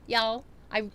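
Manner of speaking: attempted Southern US drawl, drawn out; Southern accent. Shown as a demonstration. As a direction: try out a Southern belle's accent. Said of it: "'cause of the accent".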